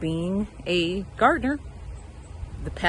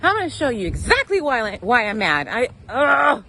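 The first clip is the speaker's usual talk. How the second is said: higher and louder, fed-up; rising to an exasperated outburst; heated frustration; 5 semitones higher, 5 dB louder than usual. Real, not acted. Gardener showing viewers the damage, louder exasperated anger. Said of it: "I am so mad".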